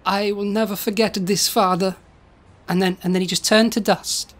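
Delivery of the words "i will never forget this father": lightly voiced dying Italian son; Roberto voice. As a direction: say farewell with a hint of Italian accent. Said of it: "Roberto says to Da Vinci".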